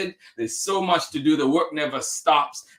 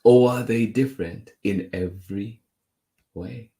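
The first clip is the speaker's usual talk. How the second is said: measured picture-book reading with lilting questions; story narration; 2 semitones lower, slower than usual. A narrator's reading. Reader to children wondering about others, storytelling voice. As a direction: read slowly to young listeners, pausing between phrases.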